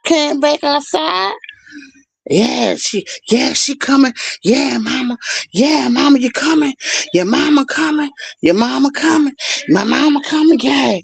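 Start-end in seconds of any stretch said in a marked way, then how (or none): 2.3-11.0 high, tearful taunt; sing-song the threat like a kid; mimicking the girl's teary taunt. Girl taunting about her mama.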